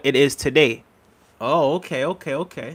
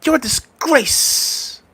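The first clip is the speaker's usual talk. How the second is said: high, hammed-up angry imitation of Ty; shrill mock rant, much higher; mock Ty argument; 11 semitones higher, much slower than usual. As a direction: friend imitating Ty's stubborn arguing, high and mocking. Imitating Ty arguing.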